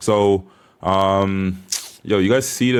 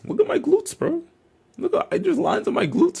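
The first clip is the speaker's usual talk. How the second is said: hyped bragging. Real, not acted. Showing off his glutes.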